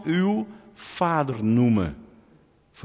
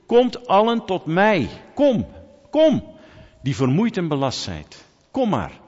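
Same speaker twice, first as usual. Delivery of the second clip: calling out; 5 semitones higher, 4 dB louder than usual. Acted. Preacher voicing Jesus inviting the weary, loud calling. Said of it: "Jezus roept".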